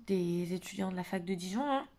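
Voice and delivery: voix fatiguée après l'effort; après le sport. Real, not acted. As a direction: parler lentement, épuisée par le sport. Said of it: "je parle très lentement, je reviens du sport, je suis fatiguée". (fatiguée en rentrant du sport)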